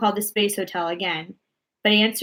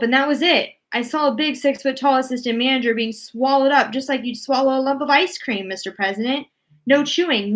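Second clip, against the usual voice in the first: higher, louder shaken astronaut; shaken report; 4 semitones higher, 4 dB louder than usual. Acted. Astronaut reports to the president about swallowed staff, shaken and higher. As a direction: tell the horror still breathless.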